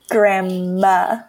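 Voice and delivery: "grandma" in two careful, separated syllables; imitated pronunciation. Host trying to copy her friend's word, imitated pronunciation. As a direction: stretch "grandma" slowly, ending on a short "muh". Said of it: "I can't even say it how you say it".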